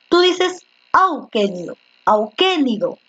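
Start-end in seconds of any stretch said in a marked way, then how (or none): 0.9-1.8 auquénido said as au-QUÉ-ni-do; stress on third-last syllable. Shown as a demonstration. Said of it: "la fuerza de voz está en la antepenúltima". 2.0-3.0 auquénido stressed on QUÉ; auquénido as au-QUÉ-ni-do, falling after the stress; stress on third-last syllable. Shown as a demonstration. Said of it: "la fuerza de voz está en la antepenúltima".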